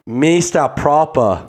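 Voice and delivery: high, slow mock German; fake German accent. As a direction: stretch it out like a hammy German. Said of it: "what accent are you doing right now".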